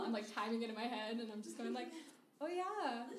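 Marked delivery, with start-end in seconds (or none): 2.4-3.0 one-word agreement. Acted. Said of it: "peppering in one-word agreements".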